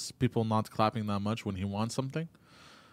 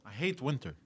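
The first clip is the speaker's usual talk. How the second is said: blocked nose, quiet complaint; grumbling through a runny nose; snotty crying; 6 dB quieter than usual. Real, not acted. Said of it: "I gotta go blow my nose".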